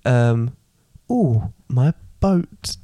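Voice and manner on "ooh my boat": slow, mock pirate voice; silly pirate speak. Co-host answers how to talk on pirate day, slow mock pirate. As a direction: drag it out, deliberately daft pirate. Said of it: "how do you speak when you speak like a pirate".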